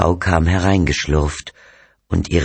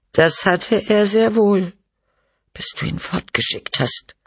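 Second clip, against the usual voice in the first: reproachful. Acted. Wife blames husband for sending son away, reproachful. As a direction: contradict him high, then sink into bitter blame.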